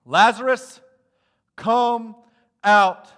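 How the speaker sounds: loud, high, ringing call; Jesus shouting into the open tomb. Acted. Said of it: "And Jesus shouted".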